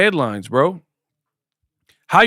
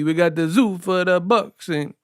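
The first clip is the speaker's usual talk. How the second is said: fake Italian accent; 3 semitones higher than usual. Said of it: "get this fake Italian sounding".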